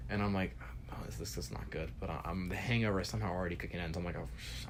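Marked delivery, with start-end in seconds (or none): 0.9-1.9 hushed unvoiced dread, much softer; whisper. Waking to a friend's mess, whispering in dread. 4.2-4.7 whispered curse. Retold or imitated. Hungover reaction cut off.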